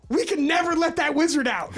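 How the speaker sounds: high, urgent retold warning; friend's panicked phone warning, high and laughing; mock panic. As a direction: sound spooked as you relay it. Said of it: "in a panic".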